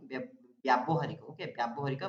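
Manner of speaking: ବ୍ୟାବହାରିକ with a long bya at the start; correct pronunciation. Shown as a demonstration. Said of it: "ୟ ଫଳା ଆକାର ରହିବ".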